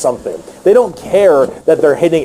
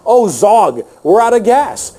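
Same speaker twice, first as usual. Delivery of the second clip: orc underling; 5 semitones higher than usual. Acted. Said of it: "some orc behind you is like".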